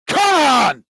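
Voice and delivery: high, drawn-out fan's cry; excited cheer. Real, not acted. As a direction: urge your team on, pitch soaring. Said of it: "I'm getting a bit excited".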